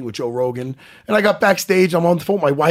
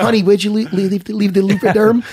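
raised, loud mock protest; acted indignant excuse; 3 semitones higher, 4 dB louder than usual. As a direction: protest to the wife, hammed up. Acts out excuse to his wife.

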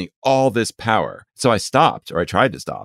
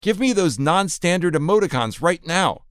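mock passion; 9 semitones higher than usual. Mock passion at chatbot's features.

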